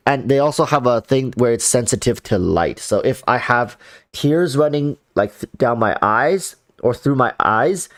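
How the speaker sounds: stuffy, nasal voice from clogged sinuses. Real, not acted. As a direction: speak through a blocked nose. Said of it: "extra nasally voice".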